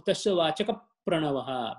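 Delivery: "Vachaka" closed with a p into "Pranavaha"; model pronunciation. Shown as a demonstration. Teacher correcting a student's verse, "Vachaka" linked as vachakap to "Pranavaha". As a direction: say "Vachaka" as vachakap, leaning into the Pra. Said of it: "see how it goes".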